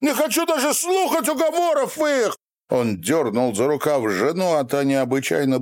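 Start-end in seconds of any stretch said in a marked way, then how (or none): 0.0-2.4 wild shout. A narrator's reading. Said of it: "прокричал".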